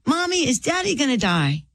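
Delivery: a hint of a child asking Mommy; small son's question. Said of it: "William looked at me".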